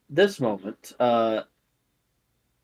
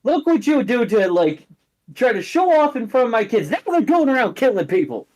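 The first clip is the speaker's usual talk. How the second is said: high, louder mom scolding her son; a mother telling off her grown son; 10 semitones higher, 4 dB louder than usual. Acted. Mom scolding, acted quarrel.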